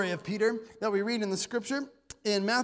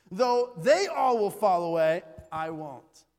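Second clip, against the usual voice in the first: boastful Peter; 3 semitones lower, 7 dB louder, slower than usual. Retold or imitated. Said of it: "this is what Peter says to him".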